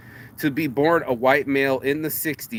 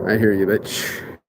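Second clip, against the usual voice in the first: mock call-out; 6 semitones lower than usual. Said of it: "I was gonna say, I hear that bitch".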